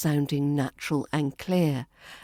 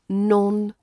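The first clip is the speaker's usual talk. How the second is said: NON... shuh... lunt, separated by pauses; slow, syllable by syllable; 3 semitones higher, 3 dB louder than usual. Shown as a demonstration. Teacher helping learners practise nonchalant slowly, syllable by syllable. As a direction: break "nonchalant" into three slow beats. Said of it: "say it slowly at first".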